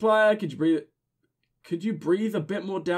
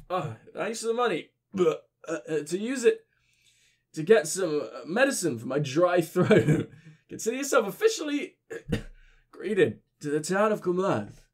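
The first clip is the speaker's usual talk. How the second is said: put-on slurred, coughing town drunk. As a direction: ramble like a boozy old man. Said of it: "giving my drunk voice".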